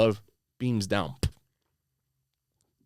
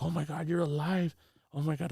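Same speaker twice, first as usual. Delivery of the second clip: softly voiced amazed grandmother, higher pitch; imitated astonished relief; 5 semitones higher, 7 dB quieter than usual. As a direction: lightly mimic a grandmother's hushed disbelief. Grandmother finds him alive.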